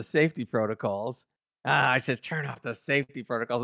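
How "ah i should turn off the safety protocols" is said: a light put-on voice for Tiana, casual; imitating Tiana. Host imitating Tiana shutting off the safety protocols, lightly voiced. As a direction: toss off the line as the cat doctor would. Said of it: "The way she does it, it's great".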